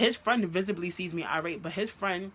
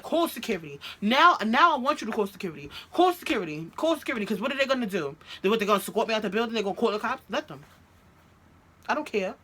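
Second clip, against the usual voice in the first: raised, insistent goading; retold defiant dare; 4 semitones higher, 4 dB louder, faster than usual. Girlfriend daring him to call security, defiant. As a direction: dare him, getting more worked up.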